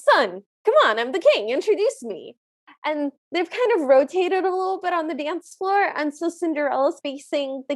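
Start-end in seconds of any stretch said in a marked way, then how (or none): 0.0-2.4 emphatic, swooping plea to a son; hammed-up royal impatience, loud at first; insistent king. King pressing his son for an introduction, insistent.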